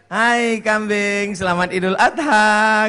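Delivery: slow, sly teasing greeting; mocking pig. Pig taunting the goats at Eid, slow and sly. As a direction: drawl it like a smug pig. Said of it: "Apa kata babi?".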